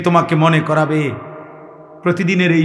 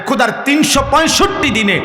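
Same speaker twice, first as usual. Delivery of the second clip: higher-pitched, shouted rebuke; angry father; 7 semitones higher than usual. Acted. Father throwing out his son for skipping prayers, angry shouting. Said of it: "ওই বাবা কি একবার বলা উচিত ছিল না".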